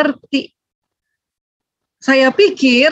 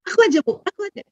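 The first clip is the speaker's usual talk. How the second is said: put-on eager child; 8 semitones higher, 5 dB quieter, much faster than usual. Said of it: "Ah, gitu dia".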